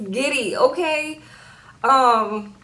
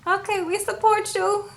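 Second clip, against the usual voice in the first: higher-pitched, half-hearted mock agreement; reluctant; 9 semitones higher than usual. Kids grudgingly backing their mama's search for a partner, reluctant. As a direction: imitate grudging, reluctant support. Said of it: "Just all reluctant".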